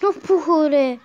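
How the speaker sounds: high, long drawn-out whine; high-pitched letdown after failing; dismayed whine. Real, not acted. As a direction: whine it slowly, sliding down. Failing the move once more.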